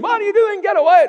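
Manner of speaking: a wife shrieking at her attacking husband; imitating a terrified wife screaming; wife's scream. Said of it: "The man's wife screamed".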